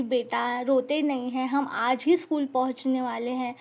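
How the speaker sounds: put-on calm the crying child down softly; gentle soothing. Favourite teacher soothing a crying girl on the bus, softly. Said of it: "वो मुझे समझाने लगी".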